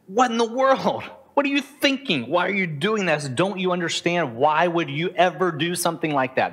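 the calm person silently screaming at someone; inner exasperation. Retold or imitated.

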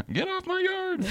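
high squeaky mock yell; shouting at trespasser. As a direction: yell like a cranky homeowner. Mock grumpy homeowner at trespassers.

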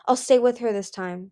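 fierce. Acted. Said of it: "Coral said fiercely".

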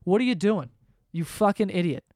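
mild mock of a scolding accountant; lightly voiced impatient scold; a touch of an annoyed accountant; exasperated accountant. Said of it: "that's all he leaves out".

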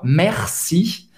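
"Merci" with a throaty uvular R; guttural French R. Shown as a demonstration. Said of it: "esse R no meio, bem gutural". (R gutural em "Merci")

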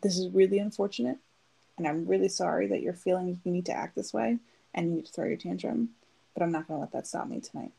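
calm level tone. Retold or imitated. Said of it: "And in this voice".

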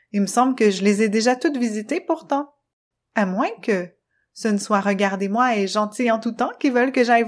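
put-on a touch brighter curious girl voice; Luna voice. Luna's voice in the story.

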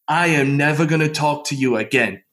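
put-on British accent for a friend's ultimatum; lightly voiced British accent. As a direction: imitate an English friend laying down the law. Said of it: "speaking with me in that British accent".

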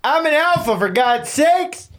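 high, hammed-up tough guy; playing the alpha; macho alpha character. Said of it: "you gotta stay in character".

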